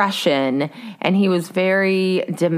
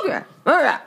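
imitating hesitant uhs; 6 semitones higher, faster than usual. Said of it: "the tone of your voice is like".

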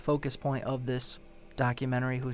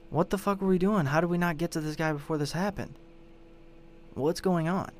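mock dismay, pitched up; exasperated; 4 semitones higher than usual. Imagined online sleuth asking the group how they missed him, exasperated. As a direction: demand answers from your fellow sleuths.

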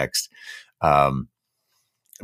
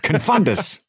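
spell incantation; 10 semitones higher, slower than usual. Pretend. Casting a Harry Potter spell.

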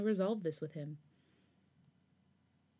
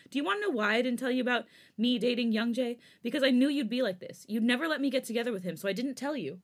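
heated; 5 semitones higher, 4 dB louder than usual. Acted. Felix arguing back heatedly.

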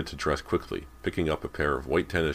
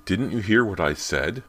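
raised, sharp protest; sharp cry; 5 semitones higher, 5 dB louder than usual. A narrator's reading. Daughter ignored by her mother, protesting sharply. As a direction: push to be heard, higher and louder. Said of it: "Callie cried sharply".

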